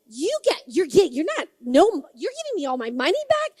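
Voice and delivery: stammering disbelief, pitch swooping up; retold astonishment. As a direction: stumble over false starts, then rush out an incredulous question. Retold astonishment at returned money.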